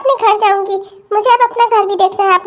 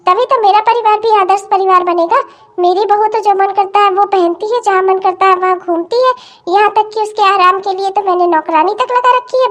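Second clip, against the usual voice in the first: scheming mother-in-law thinking aloud. Acted. Scheming mother-in-law's inner thoughts.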